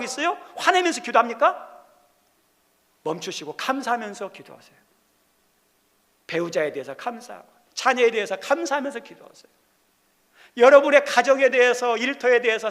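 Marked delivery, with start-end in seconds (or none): 3.0-9.5 softer, calmer repeat with 감사하면서 eased down; gentle exhortation. Real, not acted. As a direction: soothe them into thankful prayer. Preacher repeats urging, softer.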